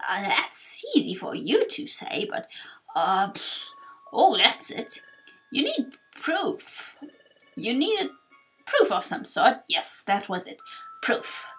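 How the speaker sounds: elder muddling toward a memory; halting, then pleased to recall it; forgetful old sage. Acted. Torkoal struggles to remember.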